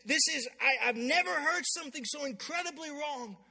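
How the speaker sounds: imitating someone appalled; incredibly angry. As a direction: play a king's stammering indignation. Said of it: "He's just so incredibly angry".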